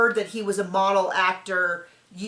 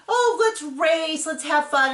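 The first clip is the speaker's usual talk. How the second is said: higher, slow and eager; playful invitation; 5 semitones higher, slower than usual. Retold or imitated. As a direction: coax her into fun, drawn out. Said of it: "and he's like".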